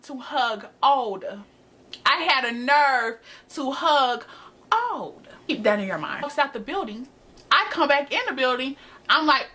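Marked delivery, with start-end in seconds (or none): 4.7-5.3 mock high squeak. Mocking pitch jump on word.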